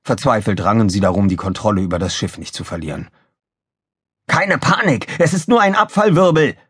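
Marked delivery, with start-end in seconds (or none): 4.3-6.6 fearless, high-pitched call; Krawall calling fearlessly. A narrator's reading. Officer steadies the crew on the bridge, fearless call. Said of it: "rief Mülloffizier Krawall furchtlos".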